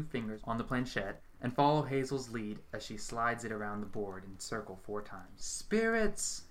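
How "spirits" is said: high, drawn-out call to the spirits; yelled invocation. A narrator's reading. Medium summons the spirits at the seance, calling out. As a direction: cry out to the dead. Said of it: "Hazel yells".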